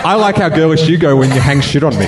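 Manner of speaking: high, lightly girlish mimicry; girlish impression. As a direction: tease him in a giddy girly voice. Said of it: "I like to think that was a good impression".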